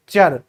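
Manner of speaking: चर said as a short cher sound, not tyor; चर sounded as the cher ending. Shown as a demonstration. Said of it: "ट्योर की बजाय क्या पढ़ेंगे".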